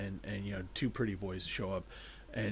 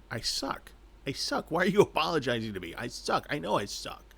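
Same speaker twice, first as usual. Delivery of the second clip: higher, louder, hurried fluster; scramble, baffled and frantic; mock flustered protest; flustered panic; 5 semitones higher, 4 dB louder than usual. She panics at the apology.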